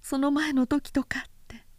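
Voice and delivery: wife demanding an answer, voice shaking with anger; voice trembling with anger. A narrator's reading. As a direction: let the anger shake the voice as it climbs. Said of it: "律の声は怒りのために震えた".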